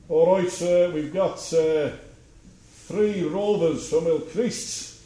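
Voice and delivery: a friendly Liverpool docker reading out a list in Scouse; Scouse accent. Retold or imitated. Loading officer ringing the office from Liverpool, slow Scouse accent. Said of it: "He had a wonderful Scouse accent".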